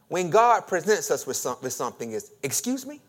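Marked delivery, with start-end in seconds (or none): 2.4-3.0 high, rising disbelief; incredulous reaction. Acted. Preacher acting out our reaction to God, incredulous. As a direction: question it as if you misheard. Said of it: "Our typical initial reaction".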